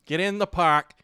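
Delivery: put-on Boston local; Boston accent. Friend playing a local at Fenway, mock Boston accent. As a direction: urge him along in mock Boston. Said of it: "kill it with Boston".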